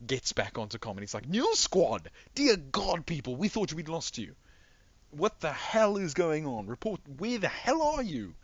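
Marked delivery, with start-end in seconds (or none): 1.3-6.7 high, loud, astonished shouting over comms; frantic officer yelling. Acted. Officer back on comms to a lost squad, frantic yelling. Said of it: "he's screaming, he's yelling into the background". 6.7-8.3 high, loud demand over comms; officer yelling. Acted. Officer demanding a report from the lost squad, yelling. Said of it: "he's yelling into the background".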